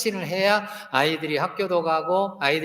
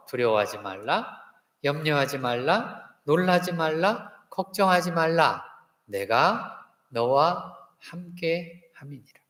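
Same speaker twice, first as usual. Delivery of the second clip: scripture recited as model; slower than usual. Shown as a demonstration. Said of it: "자, 따라서 한번 해보세요".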